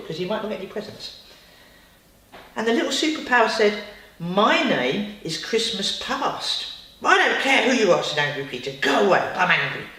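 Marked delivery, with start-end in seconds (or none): 4.2-6.7 slow, solemn spirit announcing its name; slow grand announcement. Acted. Little superpower introducing itself to Peter, slow solemn announcement. 7.0-8.0 loud, cross dismissal; angry refusal. Acted. Peter dismissing the superpower, angry refusal. 8.8-9.9 loud, cross order; angry go away. Acted. Peter telling the superpower to leave, angry order.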